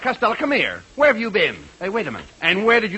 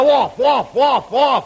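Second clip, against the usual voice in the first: exasperated repeating; 5 semitones higher, 4 dB louder, much slower than usual. Real, not acted. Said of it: "Oh, that's cute".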